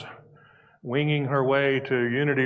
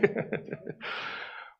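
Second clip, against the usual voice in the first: soft trailing laugh; short, quiet chuckle winding down; 9 semitones higher, 11 dB quieter than usual. Real, not acted. Speaker settling after the money joke, chuckling softly.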